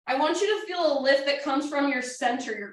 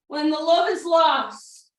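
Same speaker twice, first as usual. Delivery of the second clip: called-out quote; 2 semitones higher, 5 dB louder, slower than usual. Retold or imitated. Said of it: "as my friend James Hardy would say".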